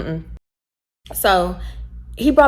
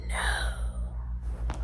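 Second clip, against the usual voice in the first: flat refusal; 14 dB quieter than usual. Retold or imitated. Refusing his flirt.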